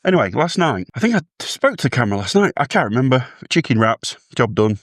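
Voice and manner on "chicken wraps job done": breathless after rushing; puffing between words; out of breath. Real, not acted. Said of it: "Sorry, I'm out of breath".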